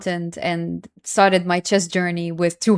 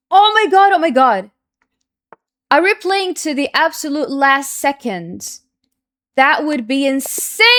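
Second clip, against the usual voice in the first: excited; 5 semitones higher, 4 dB louder than usual. Real, not acted. Time scramble at game's end.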